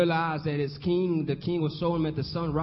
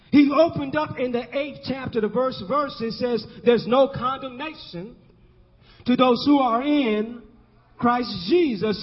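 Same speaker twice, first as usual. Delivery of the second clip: emphatic preaching; 5 semitones higher than usual. Real, not acted.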